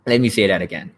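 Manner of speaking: ordinary talk, nothing marked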